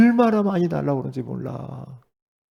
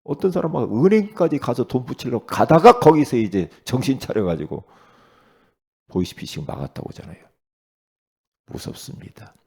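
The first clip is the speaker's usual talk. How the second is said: ordinary delivery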